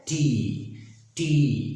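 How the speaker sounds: टी with a puff, long ee; aspirated, drawn-out टी; between T and TH. Shown as a demonstration. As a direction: say टी halfway between टा and ठा. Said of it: "टा और ठा के बीच वाला sound".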